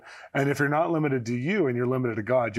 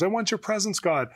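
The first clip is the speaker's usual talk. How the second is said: worship declaration; 8 semitones higher than usual. Acted. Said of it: "you say this in worship".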